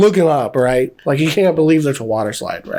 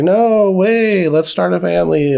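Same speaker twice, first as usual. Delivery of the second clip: imitating a man who couldn't care less; nonchalant. Owner answering the woman storming out, nonchalant. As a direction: toss it out without giving a damn. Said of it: "he says it just like that".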